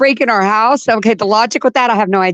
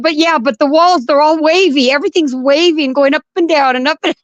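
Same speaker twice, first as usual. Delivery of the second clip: dazed protest; 4 semitones higher than usual. Retold or imitated. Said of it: "And I said".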